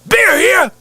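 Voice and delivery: high, loud mock-angry beer seller; angry vendor's scream. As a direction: imitate a stadium vendor screaming in anger. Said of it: "He's looking at everybody going".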